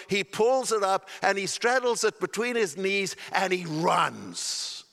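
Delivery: storytelling preacher, building excitement; excited sermon storytelling; animated preaching. Acted. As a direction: tell the parable with mounting fervour. Preacher tells parable with rising force.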